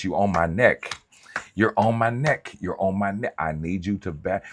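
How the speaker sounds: playful mock complaint, you on my neck; Martin Lawrence impression. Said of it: "In my Martin Lawrence voice".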